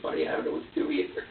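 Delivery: put-on low, defeated whisper to the baby; helpless whisper. Father retelling his helpless whisper to the baby. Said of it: "And I'm like".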